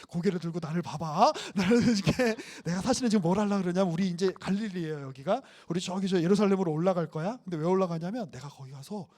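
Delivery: lightly voiced Jesus confiding to his disciples; a hint of Jesus breaking hard news; voicing Jesus.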